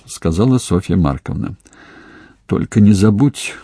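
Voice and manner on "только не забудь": plain reading voice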